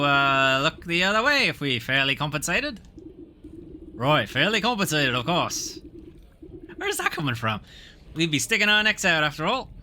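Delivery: put-on a guard in a wobbly Cockney-Australian accent; lightly put-on Cockney drifting into Australian; mixed Cockney-Australian accent. Bribe-hungry guard to the witch, half Cockney half Australian. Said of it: "getting randomly Cockney and Australian".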